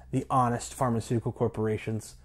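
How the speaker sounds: trying to say it straight, laugh slipping into the last word; mock-earnest claim giving way to a chuckle; holding back laughter. Real, not acted. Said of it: "can't even get to that without laughing".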